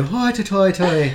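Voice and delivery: drawn-out, laughing Irish put-on; mock Irish accent. Shown as a demonstration. Friend shows what they can do, mock Irish accent. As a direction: stretch out a silly Irish lilt. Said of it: "I can do".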